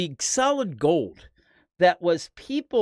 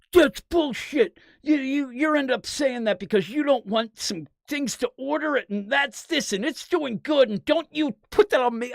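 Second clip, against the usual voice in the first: mock outburst; 8 semitones higher than usual. Retelling author's angry outburst.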